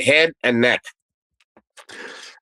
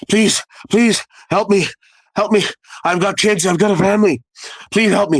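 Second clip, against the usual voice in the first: mildly acted begging, higher pitched; retold desperate plea; 5 semitones higher than usual. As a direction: imitate an injured man pleading for help. Beaten officer pleads for his life.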